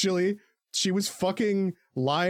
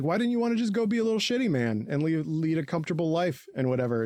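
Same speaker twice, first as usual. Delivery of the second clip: goofy character voice; 3 semitones higher, faster than usual. Retold or imitated. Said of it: "Onion Capone is like".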